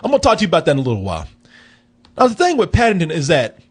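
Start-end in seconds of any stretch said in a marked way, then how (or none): 0.0-1.3 rapid brush-off again. Real, not acted. Host repeating his dodge to the co-host, gabbled fast. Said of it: "repeats brush-off".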